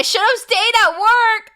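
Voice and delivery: high, loud comic wail; mock regret. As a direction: cry out in hammed-up regret. Mock regret, quoting viewer home from work.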